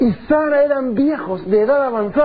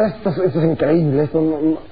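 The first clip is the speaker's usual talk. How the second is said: scoffing laugh, a touch lower; mocking laugh; 6 semitones lower than usual. Sara laughing in disbelief at God's promise, mocking. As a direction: laugh it off as nonsense. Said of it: "se burla".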